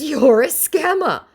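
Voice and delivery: high, loud snappy retort; mock viewer voice. Vlogger voicing the viewer, high and loud. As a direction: snap it back high. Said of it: "She goes".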